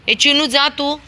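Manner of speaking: high, loud shout; shooing shout. Real, not acted. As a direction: shoo the other dog off. Shooing neighbour dog.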